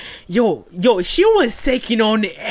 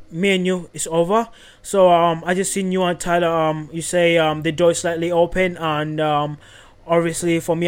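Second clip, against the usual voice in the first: low, subdued breakup voice; hushed-down, matter-of-fact dumping; Matt impression; 4 semitones lower, 3 dB quieter than usual. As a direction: imitate a man ending things, low and unemotional. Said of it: "So this is Matt. He goes".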